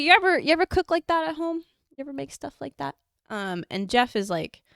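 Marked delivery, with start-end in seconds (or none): 0.0-2.9 high-pitched imitation Southern lady; high Southern old-lady voice; very Southern accent. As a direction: mimic a nosy Southern granny, pitched up. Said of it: "this is in a very Southern accent".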